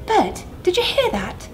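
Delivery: breathless whisper; gasped whisper. Acted. Maggie whispers to Bert in shock, breathless. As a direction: gasp it out under your breath. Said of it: "she gasped".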